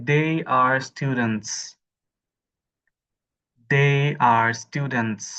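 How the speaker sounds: slow, with the s at the end of "students" said clearly; final s pronounced. Shown as a demonstration. Teacher drilling students to voice the final s in "students". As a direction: land on the hissed s at the end of "students". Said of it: "লাস্টের এস টা কিন্তু উচ্চারণ করতে হবে।".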